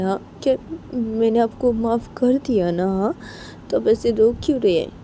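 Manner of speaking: gently comforting a crying friend; consoling. Acted. Payal wipes Poonam's tears, consoling her. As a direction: coax her to stop crying.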